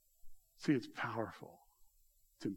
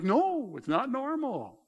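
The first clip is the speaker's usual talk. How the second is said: firm no; 12 semitones higher, 5 dB louder, much slower than usual. Retold or imitated. Pastor retells firm answer.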